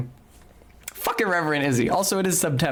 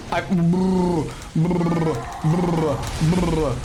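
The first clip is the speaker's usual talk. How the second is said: repeated rolled brr sounds; imitated brr noise; 3 semitones higher, much slower than usual. Real, not acted. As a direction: trill out short bursts of brr. Imitated noise during play.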